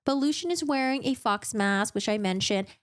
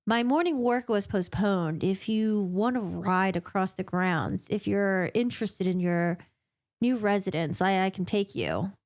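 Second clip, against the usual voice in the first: reluctant Tamlin; 3 semitones lower than usual. Retold or imitated. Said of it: "Every word coming out of his mouth seemed like it was so painful".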